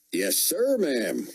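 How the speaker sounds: flustered soldier. A narrator's reading. Soldier answers officer.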